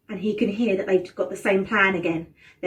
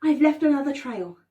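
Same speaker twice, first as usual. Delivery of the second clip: Hansel reassuring; 4 semitones higher, 5 dB louder than usual. Acted. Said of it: "he says".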